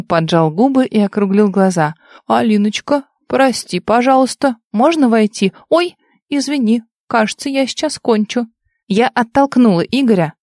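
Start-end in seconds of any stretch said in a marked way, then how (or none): 2.3-8.5 mocking imitation of Vitya. Igor mimics Vitya in bed.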